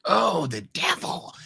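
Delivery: high, slow spooky gasp; mock alarmed. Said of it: "you're like".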